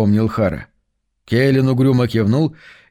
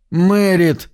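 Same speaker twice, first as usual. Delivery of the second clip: despairing cry; 7 semitones higher than usual. Acted. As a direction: cry her name in despair. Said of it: "в отчаянии простонал Хара".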